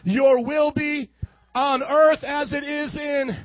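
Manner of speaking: slow leading prayer. Shown as a demonstration.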